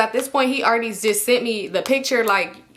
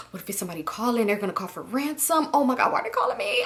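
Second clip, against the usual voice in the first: mock panic; 5 dB quieter than usual. Imagining a ransom call, softly panicked then rising. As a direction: act out fretful panic, starting soft.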